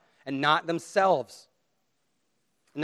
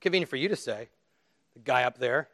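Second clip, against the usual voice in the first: skeptical listener; 2 semitones lower than usual. Acted. Preacher voicing what the congregation is thinking, mock skeptical. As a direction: imitate a dubious heckler, drawn-level tone. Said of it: "And you're all thinking".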